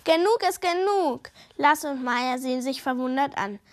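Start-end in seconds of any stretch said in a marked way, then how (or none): 0.0-1.3 loud, higher furious outburst; angry shout. Acted. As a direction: storm out yelling. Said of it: "während er laut schreit".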